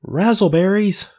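high, loud shouted Razzleberries; loud, high comic yell; yelled catchphrase. Retold or imitated. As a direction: bellow it out like a goofy catchphrase. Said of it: "and he yells".

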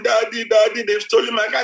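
imitating a tearful daughter; mock crying daughter. Daughter reporting her stolen car, mock tearful. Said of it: "she came crying".

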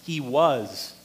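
"was" leaned on, drawn out and falling; stress on "was". Shown as a demonstration. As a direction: put the weight on "was". Stresses the past tense word.

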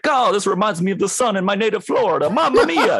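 very high-pitched, hammed-up caricature presenter; stereotypical white dude. Mocking the scripted blonde dude in a suit, hammed-up stereotype. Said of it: "stereotypical blonde white dude".

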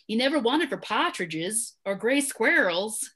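put-on light New England accent, reading aloud; amateur Boston accent, dropping some R's; attempted Boston accent. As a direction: have a rough go at a Boston accent. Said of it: "that's my attempt at an accent".

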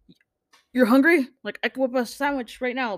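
put-on eager, doting old butler. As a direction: fuss over him like a doting butler. Alfred voiced fussing over Jason.

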